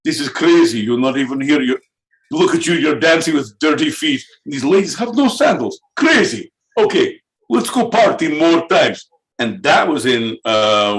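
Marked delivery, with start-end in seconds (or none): 0.0-9.1 high, hyped-up partygoer; wide-eyed and amazed at the chaos; excited party bro. Retold or imitated. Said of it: "It was like".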